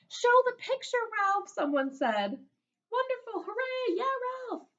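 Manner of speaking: very high cheering voices; cheering kids. Acted. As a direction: cheer him on like the whole class. Class cheering for Ralph.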